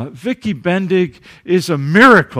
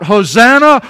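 loud Hosanna, held; preacher voicing the crowd's Hosanna; mock crowd shout; 5 semitones higher, 8 dB louder than usual. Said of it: "you shout".

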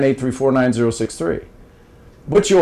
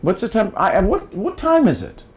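logic question demo; 6 semitones higher than usual. Shown as a demonstration. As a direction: ask it lightly like a sudden riddle. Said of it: "ask a logic question".

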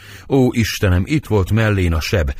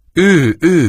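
anguished cry; 8 semitones higher, 5 dB louder than usual. Acted. Nurse confirms Romeo killed Tybalt.

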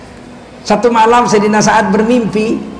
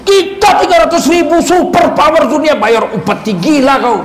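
a higher indignant outburst, mock king; an outraged king's scoff, higher; angry king; 5 semitones higher than usual. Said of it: "Oh, marahnya Raja Parsi". (raja marah, nada lebih tinggi dan mengejek)

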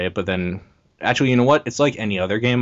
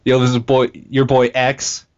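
gangster voice; 5 semitones higher, 5 dB louder than usual. Pretend. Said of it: "If only I could do a good gangster voice".

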